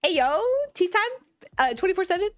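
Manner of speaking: high, punchy host hype voice; talk show host voice. Pretend. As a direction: announce it like a TV host. Talk show host intro bit.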